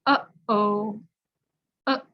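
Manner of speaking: "Uh-oh" with a catch in the throat between the vowels; "Uh-oh" cut by a throat stop; glottal uh-oh. Shown as a demonstration. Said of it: "make that sound".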